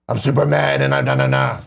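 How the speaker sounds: lightly imitated whiny, mad rapper voice; sing-song mock of an angry young rapper. Co-host mimicking a rapper's early records, lightly whiny and mad. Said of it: "voice to him".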